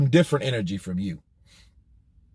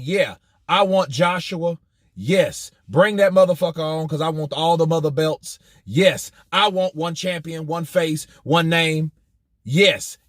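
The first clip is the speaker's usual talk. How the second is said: imagined fired-up Wilder; 2 semitones higher than usual. Pretend. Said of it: "instead of him saying".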